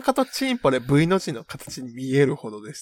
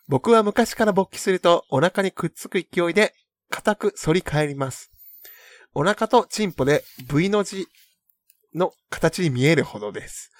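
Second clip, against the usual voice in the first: letter reading. Acted. Reads a listener letter aloud.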